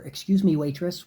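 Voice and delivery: calling a waiter. Shown as a demonstration. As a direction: call the waiter over politely across the room.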